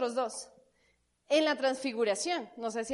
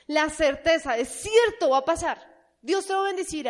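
emphatic declaration; 2 semitones higher, 6 dB louder than usual. Real, not acted. Preacher affirming that faith is certain.

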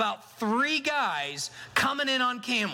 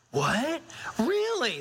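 mock surprise; 4 semitones higher, slower than usual.

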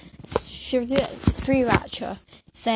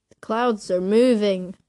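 louder, slow, drawn-out insistence; emphatic child's protest; 5 dB louder than usual. Retold or imitated. Child to puzzled friends about the sky, emphatic. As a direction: announce it like a big discovery.

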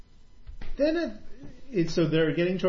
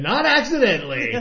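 laughing deadpan denial; 9 semitones higher, 8 dB louder than usual. Retold or imitated. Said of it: "And he said".

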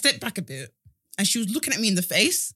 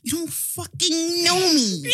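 high, slow, laughing sassy line; quote through laughter; 8 semitones higher, 4 dB louder, slower than usual. Retold or imitated. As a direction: say it while cracking up. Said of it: "Just even did her neck".

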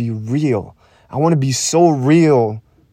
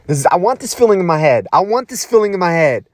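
fired-up self-affirmation; 4 semitones higher, faster than usual. Real, not acted. Psyching himself up with repeated mantra.

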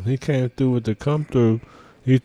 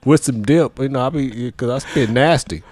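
Bill from Iowa; 7 dB louder than usual. Pretend. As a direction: ramble like a rowdy country caller. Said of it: "with me two dips".

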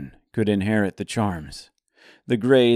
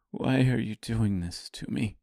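softer, broken and defeated; downtrodden, broken; 6 dB quieter than usual. Acted. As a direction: ask it quietly, voice broken. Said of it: "in a downtrodden and broken voice".

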